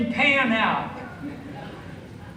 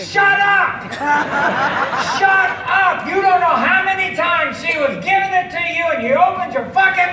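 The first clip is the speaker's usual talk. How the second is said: mock berating shout; 3 semitones higher than usual. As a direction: tear into him, hammed-up. Berating the husband in the crowd.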